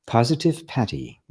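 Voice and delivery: a light, playful Irish lilt on "Positive Patty"; Irish accent. Pretend. Host greeting viewer Positive Patty in a light Irish accent. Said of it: "I just have to say it with an Irish accent".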